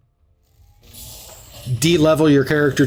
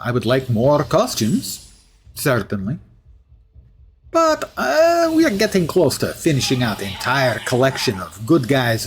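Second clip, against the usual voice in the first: put-on Russian accent. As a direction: play the hero with a Russian accent. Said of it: "I'm sorry about the Russian accent".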